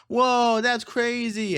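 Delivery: high, loud mock-astonished "whoa"; exaggerated gasping disbelief, imitating onlookers; mock shock. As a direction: pitch way up, play the stunned crowd. Mimics everyone's shocked reaction.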